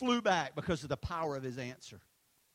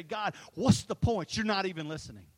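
frustrated outcry; 6 dB louder than usual. Retold or imitated. Believer in anger, crying out to God, a loud frustrated plea. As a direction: demand an answer from God in frustration. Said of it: "in anger and frustration".

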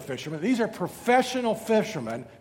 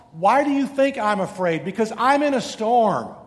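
higher, louder, worried voice of someone in trouble; anxious plea; 5 semitones higher, 6 dB louder than usual. Pretend. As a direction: plead like someone losing everything. Frightened people voiced in storm.

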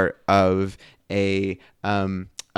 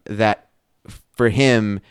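usual speaking voice

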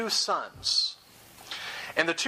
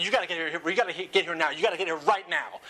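urgent plea to police. Retold or imitated. Acts out urgent police call.

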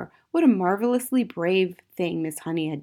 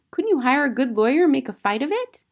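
put-on high child's pleading question; urging young Matilda; 8 semitones higher, 5 dB louder than usual. A narrator's reading. Matilda urging her teacher to fight, high insistent voice. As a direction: urge it like a determined little girl.

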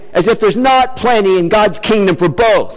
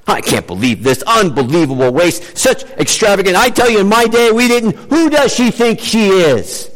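grumbling critics. Retold or imitated. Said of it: "So they grumbled to themselves".

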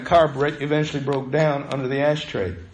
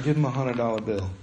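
retold whisper; 6 semitones lower, 7 dB quieter, faster than usual. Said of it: "God whispered to Jason's heart".

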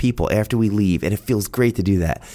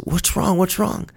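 much higher, anxious repeated question; worried wife; 9 semitones higher than usual. Retold or imitated. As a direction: ask urgently, concerned for him. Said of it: "And Teresa says".

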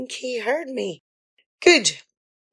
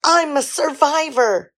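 quoting father; 7 semitones higher, 4 dB louder than usual. Retold or imitated. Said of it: "as your father said".

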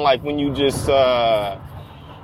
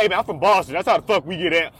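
friendly Boston guy; faster than usual. Retold or imitated. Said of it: "he was being friendly".

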